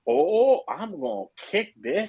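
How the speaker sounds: high, drawn-out boast with a laugh; mock overconfidence. Patient waking after first chemo, mock overconfident. Acts out morning overconfidence in hospital.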